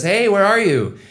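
bright, suspicious hello on the phone; high girlfriend voice. Retold or imitated. Girlfriend phoning boyfriend, high and chirpy.

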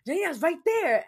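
high, loud mocking mom voice; mock mother. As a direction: play the mother pointing it out.

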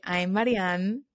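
slow, robotic self-introduction. Shown as a demonstration. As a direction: say your name like a robot. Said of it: "I feel like I sound like a robot".

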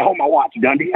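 high, cocky challenge; lightly voiced tough guy spoiling for a fight; Tracy itching to fight. Tracy to Dundee before a bar brawl, mock tough.

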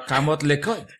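Tagalog words passed off as French; mock French. Co-host jokes that he speaks French, mock French. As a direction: pretend this Tagalog phrase is French. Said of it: "in French".

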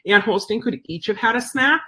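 dry mock-cheerful sarcasm, lightly done; sarcastic. Owner mocking the yappy strollered dogs, mildly sarcastic. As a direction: say it like it's nice but you mean the opposite. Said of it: "she said sarcastically".

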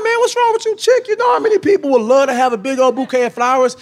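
indignant high mock voice. Husband retelling how he snapped at his wife, high and indignant. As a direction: pitch way up, playing himself as an outraged husband.

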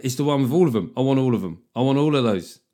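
put-on a touch of a greedy child wanting everything; greedy inner voice. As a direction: act out your greedy mind. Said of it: "my man mind is going".

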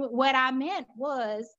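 slow Southern drawl; Southern accent. Acted. Repeating it for a puzzled listener, slow Southern accent. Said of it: "have to speak it the same".

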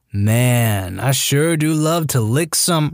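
slow, woozy slurring from sedation; slurred. Retold or imitated. Sedated kid to the room, slow slurred drawl. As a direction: drag the words half asleep. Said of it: "slurs out".

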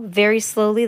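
plain reading voice

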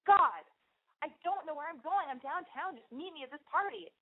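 mock lost and overwhelmed; flustered. Lost downtown telling her friend to meet, flustered. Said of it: "so I go".

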